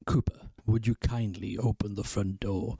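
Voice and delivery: low, slow, measured command; deep voice. Acted. Narrator ordering Cooper to open the door, deep voice. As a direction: put on a deep, deliberate voice. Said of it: "It works better with a deep voice".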